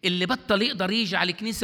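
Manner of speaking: الكنيسة said loud with بطل rising, holding back a little; first, firmer take of the warning. Acted. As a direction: state it strongly but not yet at full volume. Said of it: "repeated louder right after".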